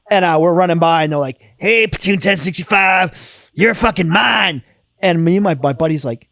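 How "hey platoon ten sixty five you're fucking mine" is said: slow, drawn-out drill instructor call; mock drill yell. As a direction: imitate an instructor claiming his platoon, slowly. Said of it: "this guy's screaming and yelling at us".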